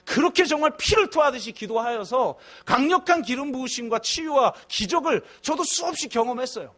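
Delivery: ordinary talk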